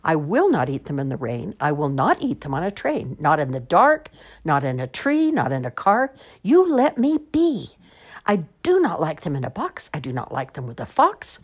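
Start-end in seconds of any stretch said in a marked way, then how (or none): 0.0-6.1 stubborn, fed-up refusal; grumpy Sam-I-am's friend refusing. Acted. 6.4-7.7 high, slow, loud "leave me alone"; exasperated plea. Acted. Exasperated refusal, character voice.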